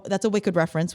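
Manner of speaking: usual speaking voice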